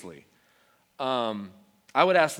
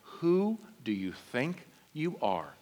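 put-on defiant toddler; slower than usual. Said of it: "she looked at me like".

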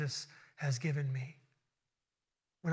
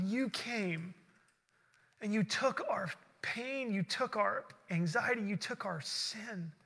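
heartfelt prayer. Real, not acted. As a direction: pray aloud to Jesus, unhurried, stretching key words. Leads closing prayer.

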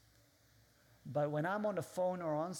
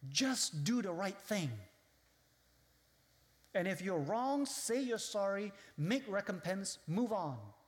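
quoted saying; 4 semitones higher than usual. Retold or imitated. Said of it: "you have sayings like".

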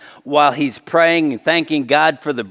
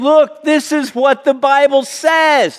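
voicing Jesus; 10 semitones higher than usual. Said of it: "And he's saying".

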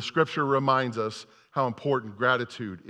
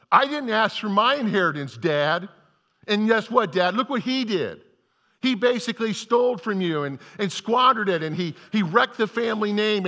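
higher, louder aggrieved whine; older brother protesting to his father; mild mock complaint; 4 semitones higher, 4 dB louder than usual. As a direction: list every grievance at Dad. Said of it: "the older brother's still mad".

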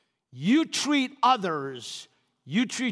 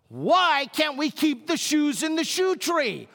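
annoyed complaint; 6 semitones higher than usual. Retold or imitated. Husband complaining to wife about shoes, higher griping. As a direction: whine it like a fed-up husband. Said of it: "To which I say".

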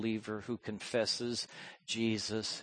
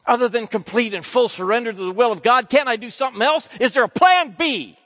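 high, loud pleading; pleading question; 13 semitones higher, 14 dB louder than usual. Acted. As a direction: beg for a plan B. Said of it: "the temptation Jesus always faced".

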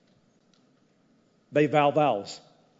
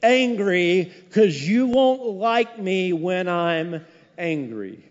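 Hulk quote; 5 semitones higher, 5 dB louder, much slower than usual. Retold or imitated. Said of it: "He used to say".

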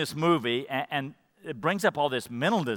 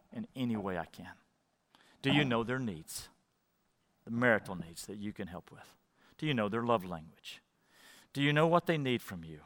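intimate reflection; 2 semitones lower, 3 dB quieter than usual. Acted. Private reflective questions to congregation.

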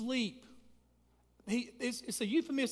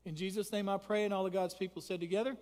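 earnest prayer; 3 dB quieter than usual. Acted. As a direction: pray humbly over the congregation. Pastor leads congregational prayer.

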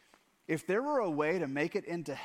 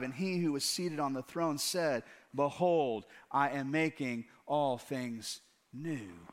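scripture reading. Acted. Reads verse five aloud.

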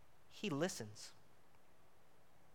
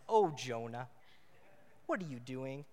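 fond exasperation; 2 semitones lower, 3 dB quieter than usual. Shown as a demonstration. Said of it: "That's how I say his name".

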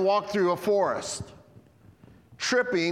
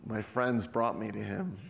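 laughing; 7 semitones lower, 7 dB quieter than usual. Real, not acted. Preacher laughing while voicing man.

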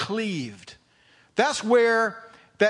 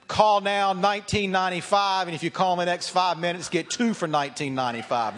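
infomercial. Pretend. Mock TV sales pitch.

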